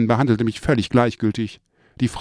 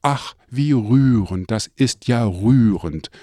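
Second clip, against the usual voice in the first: slow, drawn-out grandmother voice; slowly mimicking grandmother; grandmother's voice; slower than usual. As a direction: savour each word like a proud grandmother. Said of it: "sagte sie".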